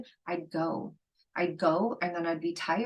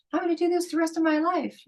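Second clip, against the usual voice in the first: excited vow; 11 semitones higher, faster than usual. Retold or imitated. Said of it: "And I'm like".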